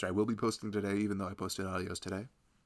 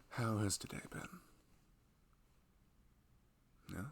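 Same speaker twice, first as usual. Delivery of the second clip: loving husband. Acted. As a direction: gently check in on your pregnant partner. Roleplays husband to pregnant wife.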